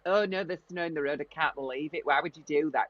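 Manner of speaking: lightly put-on Leeds accent. Shown as a demonstration. Showing how Leeds differs, complaining about snow, Leeds accent. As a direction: grumble in a demonstrated Leeds accent. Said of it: "it's slightly different. It's more like".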